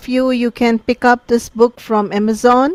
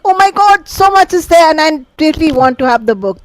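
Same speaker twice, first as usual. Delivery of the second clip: higher-pitched gushing quote, settling down; excited reader; 5 semitones higher than usual. Acted. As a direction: gush like an eager reader, then ease off. Acting an eager reader's reaction.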